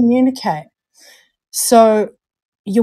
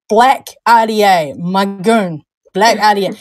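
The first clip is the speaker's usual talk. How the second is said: "Black" said in a broad Kiwi accent. Shown as a demonstration. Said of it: "That was normal".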